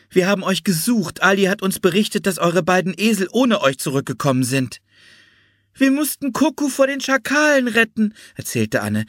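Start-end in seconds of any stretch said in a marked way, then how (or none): 0.1-4.8 higher-pitched woman's voice; lightly voiced concerned rescuer; relieved Florence Nightingale. A narrator's reading. Florence tells the found children of the search, higher relieved voice. 5.7-8.1 put-on high-pitched little girl's voice; young Anne, earnest. A narrator's reading. Anne explains the pet's rescue to Florence, high girlish voice.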